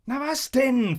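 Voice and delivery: high, challenging call; taunting question. A narrator's reading. Leader prodding the staring crowd, high taunt.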